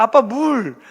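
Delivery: put-on loud, slow nagging child; kids demanding things. Children pestering their dad for things, loud nagging. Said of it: "이러면서 자꾸 아빠만 찾아요".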